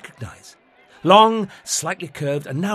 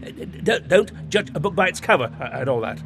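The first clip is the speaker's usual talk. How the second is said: nervous gabble. Acted. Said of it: "the Doctor gabbled".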